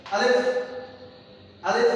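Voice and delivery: আলিফ said crisply with a small rise; clear letter demo. Shown as a demonstration. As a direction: model আলিফ for learners to repeat. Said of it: "আমার সাথে সাথে একটু বলেন". (স্পষ্ট করে আলিফ উচ্চারণ)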